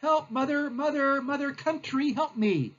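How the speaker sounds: high, plaintive cry for mother; hammed-up helpless calling out, pitched high; mock yelling for help. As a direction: wail for rescue like a bullied child. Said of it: "He's basically yelling".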